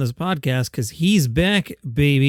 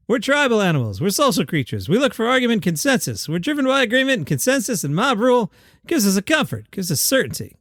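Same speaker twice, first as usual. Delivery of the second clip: lightly voiced Jerry Seinfeld; a hoarse, half-hearted Jerry; Jerry Seinfeld impression; 5 semitones higher than usual. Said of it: "half-ass Jerry Seinfeld".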